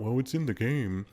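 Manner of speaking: imitating players making lame excuses; lightly put-on voice of someone rationalizing; mock justifying. Exploiters justifying it as part of the game, mock defensive. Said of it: "they'll justify and rationalize it".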